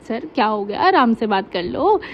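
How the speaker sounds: easy, patient tone to cool him down; calm and gentle. Retold or imitated. Student calmly soothes an angry sir in the hall, soft and patient. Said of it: "मैं बहुत आराम से".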